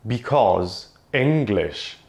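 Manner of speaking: overdone mock enthusiasm for English; sarcastic praise. Linguist mockingly praising English before saying no. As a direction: sell the lie that English is easy, tongue in cheek.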